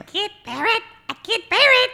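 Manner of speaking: high, loud parrot squawk. Shown as a demonstration. Woman showing off her radio character, loud parrot squawk. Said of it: "talk like a parrot".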